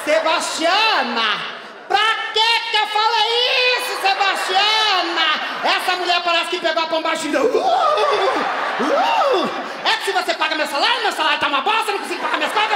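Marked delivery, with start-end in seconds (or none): 0.0-5.3 hammed-up regretful cry; dramatic outcry. Dismayed exclamation of regret. 7.4-9.5 shrill comic imitation sounds with a laugh; hammed-up outraged huffing; high mocking grunts. Nurse's possessed reaction.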